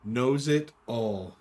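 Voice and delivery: drawn-out slow repeat. Shown as a demonstration. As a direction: stretch every word slowly. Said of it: "repeated phrase".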